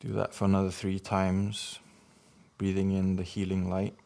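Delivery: measured meditation guidance with long pauses for breathing; guided meditation. Acted. Guiding listeners to breathe in healing light, measured meditation voice. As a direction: lead each breath in short phrases, leaving space.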